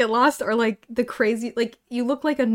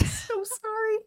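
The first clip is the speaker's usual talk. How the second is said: laughing; 6 semitones higher, 5 dB quieter, slower than usual. Real, not acted. Still laughing helplessly.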